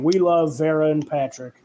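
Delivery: lightly voicing the director saying "We love"; James Wan impression. Director telling the studio line, lightly imitated. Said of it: "I just heard it in James Wan's voice".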